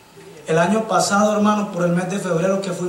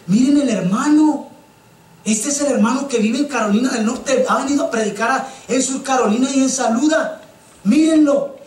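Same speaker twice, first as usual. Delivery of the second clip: happy proud father; 5 semitones higher than usual. Retold or imitated. A happy father presents the preacher to the crowd, beaming. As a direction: show off the guest with joy.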